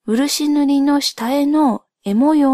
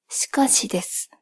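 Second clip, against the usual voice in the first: whispering; 5 dB quieter than usual. Acted. Aside before admitting no info.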